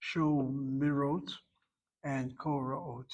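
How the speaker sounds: "shomirot" at half speed, each syllable apart; carefully drawn-out "shomirot" sho-mi-rot; slow spelling out. Shown as a demonstration. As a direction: model "shomirot" slowly for students. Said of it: "The feminine plural".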